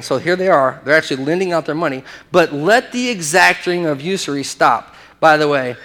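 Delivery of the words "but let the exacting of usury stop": slow, emphatic reading; measured, emphatic order; emphatic command. Acted. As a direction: lean firmly on each word, slowly. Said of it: "that exclamation mark means he emphatically said it".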